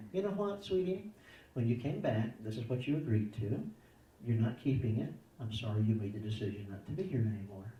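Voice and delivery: gentle, unhurried parental correction; loving firmness. Shown as a demonstration. Parent telling a child the broken agreement, lovingly firm. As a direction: correct them kindly, no yelling. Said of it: "We do it in love".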